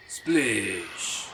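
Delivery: drawn-out falling sound-effect voice; put-on splash, sliding down; mock splash cry. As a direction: stretch it out like a cartoon splash. Mimicking game's splash cry.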